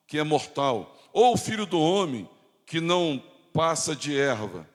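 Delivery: measured pulpit reading with weighty pauses; solemn scripture reading. Acted. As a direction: declaim the verse, phrase by phrase. Reads scripture aloud to congregation.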